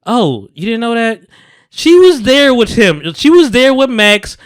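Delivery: high, slow, mocking tone; mock clueless voice. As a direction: play dumb, drawn out. Mocking the show's dialogue.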